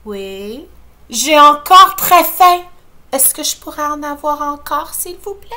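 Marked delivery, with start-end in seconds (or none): 1.1-5.5 put-on child pleading. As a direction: ask sweetly for more. Enfant réclame poliment. (petit garçon qui supplie)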